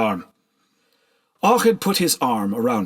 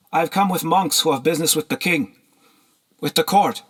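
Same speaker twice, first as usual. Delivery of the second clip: put-on higher, timid girl; young girl voice; 7 semitones higher than usual. A narrator's reading. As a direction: answer carefully, a bit unsure. Slave girl answers lord.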